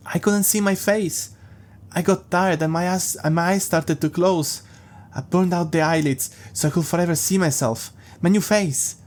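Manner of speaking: put-on a small child proudly telling his mommy; childish creepy voice. Jeff explains to his mother.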